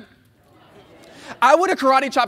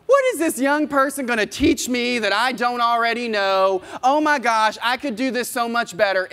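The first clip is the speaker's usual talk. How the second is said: arrogant inner voice; 3 semitones higher than usual. Retold or imitated. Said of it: "what would be going through my head".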